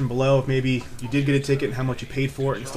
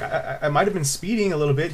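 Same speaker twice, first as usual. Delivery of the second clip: re-enacted stammering confession; scared stutter; 3 semitones higher than usual. Driver repeats his speeding confession to cop, nervous stutter. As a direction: stumble on the opening word, mildly nervous. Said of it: "I'm stuttering, I'm getting all scared".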